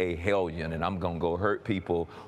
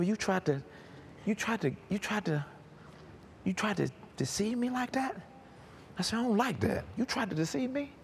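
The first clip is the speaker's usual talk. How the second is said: confronting the devil; 13 semitones higher, 5 dB quieter than usual. Retold or imitated.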